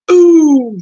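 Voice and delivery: loud, high falling "ooh"; mocking "ooh". Real, not acted. Celebrating her own roast of Dolly, mocking whoop. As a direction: crow over a burn.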